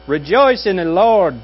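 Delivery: mock relentless Christian cheerfulness, pitch lifted; mock giddy cheer. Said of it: "like a giddy idiot".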